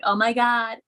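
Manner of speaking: lightly mocking Valley-girl voice, last line drawn out slowly. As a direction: do a hint of a ditzy Valley girl. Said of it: "like, typical Valley girl stuff".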